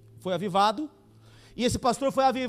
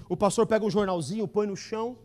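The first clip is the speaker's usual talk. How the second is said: normal talking voice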